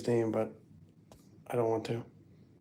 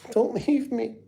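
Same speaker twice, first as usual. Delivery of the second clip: much higher, slow, laughing mock cry; mock whiny wail; 11 semitones higher than usual. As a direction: whimper it like a big baby begging, half laughing. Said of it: "you guys just wanna see me cry".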